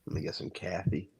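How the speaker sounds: imitated New York accent on "coffee". Mimicking the local accent after driving through, New York accent. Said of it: "It's like a New York accent".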